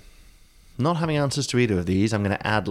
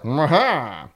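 short, higher hammed-up villain chuckle; a little theatrical mwaha; mock evil laugh; 5 semitones higher than usual. Jack gloating as the devil climbs, mock evil laugh. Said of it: "That's how Jack sounds".

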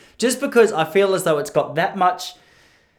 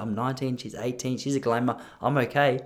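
inner thought; 3 semitones lower, 6 dB quieter than usual. Retold or imitated. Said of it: "this is in my head".

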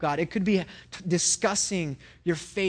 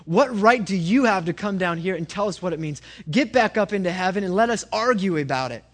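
lightly acted indignation, louder; indignant rebuke; 2 semitones higher, 5 dB louder than usual. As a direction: talk back loudly to send God away. Rabbis rebuke God in parable.

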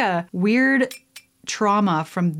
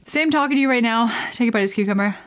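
put-on cute girl voice; 3 semitones higher, much faster than usual. Shown as a demonstration. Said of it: "I'll give you an example".

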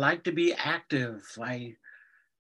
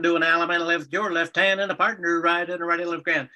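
fast rhythmic square dance calling; square dance caller; 2 semitones higher than usual. Shown as a demonstration. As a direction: call out the dance moves in a rhythm. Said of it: "I was a square dance caller".

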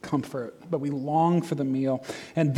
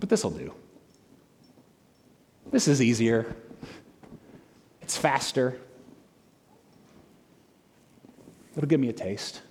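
quiet inner voice; 6 semitones lower, 6 dB quieter than usual. Acted. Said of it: "what we're saying in those moments is".

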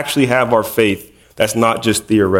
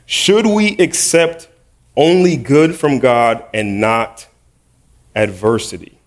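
slow down and lean on "Should" and "only"; slow emphatic reading; slower than usual. Shown as a demonstration.

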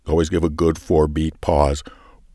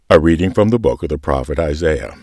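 gentle liturgical reading. Shown as a demonstration. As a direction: read it gently, letting comfort hang. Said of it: "Let me take a run at it here".

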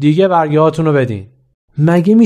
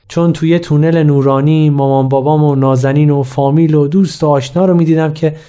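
ordinary delivery

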